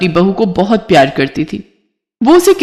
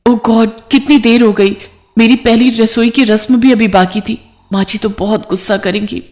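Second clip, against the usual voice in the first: lightly voiced worried young bride, a bit higher; a touch of fretting over being late; चिंतित नई बहू; 3 semitones higher than usual. (हल्की घबराई बहू की आवाज़)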